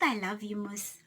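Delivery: soft whisper, barely voiced; whispered quote. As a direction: breathe it like a secret.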